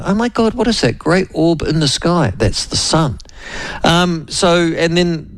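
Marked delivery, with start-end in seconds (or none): 0.0-2.3 mock surprise. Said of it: "they were surprised to see the sun".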